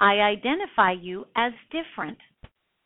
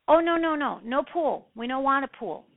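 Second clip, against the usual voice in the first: broken-English client; 5 semitones higher than usual. Retold or imitated. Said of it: "very broken English".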